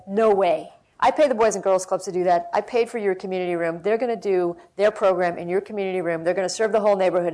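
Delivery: loud, flat refusal; firmly turning the request down. Retold or imitated. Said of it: "And Petaluma said".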